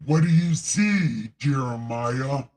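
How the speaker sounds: a hint of a slow, solemn God; lightly voiced deity, slow and grave; reading God's lines aloud in a mild divine voice. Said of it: "it's hard to do this without God voice".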